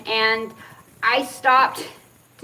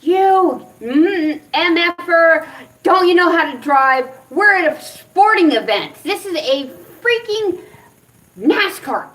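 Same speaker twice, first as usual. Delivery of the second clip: louder, higher imitation of chewing someone out; retold angry yelling; 6 semitones higher, 5 dB louder than usual. Telling off the golf cart driver who hit her, mock yelling. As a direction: re-enact an indignant yell, pushed up in pitch. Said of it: "I'm yelling at him".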